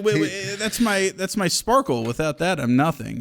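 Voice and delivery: high panicky voice; mock panic. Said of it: "I'm like".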